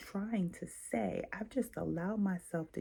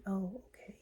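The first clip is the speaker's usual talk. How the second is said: unsure agreeing; 10 dB quieter than usual. Shown as a demonstration. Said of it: "or a no might be".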